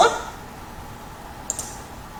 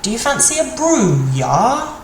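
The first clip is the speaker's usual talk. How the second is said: mock offer; 5 semitones higher than usual. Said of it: "somebody saying".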